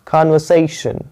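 कन्वर्सेशन said slowly with a held SAY; pronunciation demo. Shown as a demonstration. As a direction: model कन्वर्सेशन, lingering on the "say" syllable. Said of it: "तो देख रहे हैं कन्वर्सेशन". (कन्वर्सेशन, "से" पर थोड़ा रुककर)

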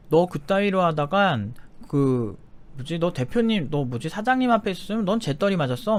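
threatening glare. Retold or imitated. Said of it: "막 노려보면서 그러는 거예요".

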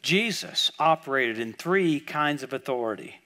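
slowed down, each word in "Jesus operated in three kinds of authority" spelled out; slow emphatic repeat. Shown as a demonstration. A preacher repeating his point for the congregation, slowly and with weight. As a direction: say it again slowly so it sinks in. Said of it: "Now, now, I want you to get this".

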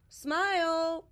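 high, loud call of a name. A narrator's reading. Bear calls for his missing friend Smile, loudly. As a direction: call across the woods for a friend. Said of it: "Bear called".

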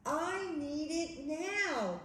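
very slow, drawn-out storybook demand; insistent plea. Acted. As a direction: stretch every word, pleading for it. Ogre insists in story quarrel.

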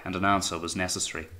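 ordinary delivery, nothing marked

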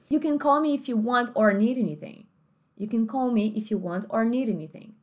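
American host family, R sounded in or; American accent. Shown as a demonstration. Host family talking to au pair, American accent. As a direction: say it American, with a clear R. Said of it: "host family nativa americana".

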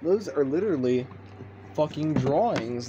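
disgusted yell. Retold or imitated. Retelling yelling at friend over drawings, outraged. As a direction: shout it in disbelief. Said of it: "I'm like".

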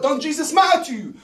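half-laughing through the rant question; chuckling while he asks, amused with himself. Acted. Ranting guy asks the therapist, laughing.

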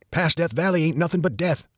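put-on gruff old barfly drawling doom; old man voice. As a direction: lean into a weathered old-timer. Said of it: "said an older man".

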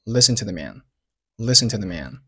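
"Listen to the man" with "to the" reduced; weak forms. Shown as a demonstration. Teacher models "Listen to the man" with weak "to" and "the". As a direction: keep "Listen" full, "to the" light and short. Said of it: "to和the都是弱读".

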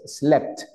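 "Slept" with the final P and T both audible; P y T pronunciadas. Shown as a demonstration. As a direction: let both consonants at the end of "Slept" be heard. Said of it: "tanto la P como la T". ("Slept" con la P y la T finales bien pronunciadas)

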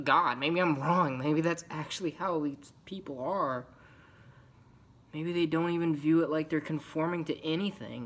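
agitated self-doubt. Acted. Outcast second-guessing why people conform, agitated.

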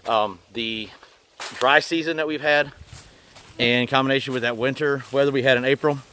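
muffled through a bug mask; through a face mask. Real, not acted. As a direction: talk behind a mosquito mask. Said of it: "I got this mask on my face".

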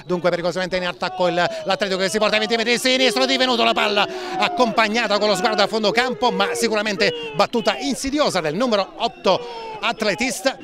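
rapid-fire match commentary; fast play-by-play. Real, not acted. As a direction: rattle off the action quickly.

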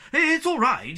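high and loud in sudden alarm. A narrator's reading. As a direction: blurt it out in panic. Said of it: "he said in alarm".

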